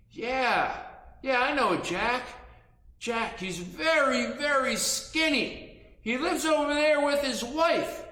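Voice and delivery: high, slow little voice; small, drawn-out, high-pitched reply; soft-spoken tiny figure. Acted. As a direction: speak up high like a tiny toy person. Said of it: "talked very softly".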